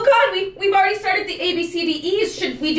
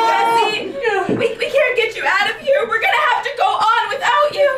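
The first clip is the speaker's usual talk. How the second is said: dramatic farewell; 6 semitones higher than usual. Acted. Rescuer giving up on patient.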